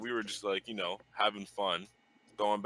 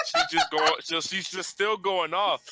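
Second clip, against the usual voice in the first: excited high telling; 8 semitones higher, 6 dB louder than usual. Real, not acted. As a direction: voice jumps high and loud in excitement. Excited retelling of fight.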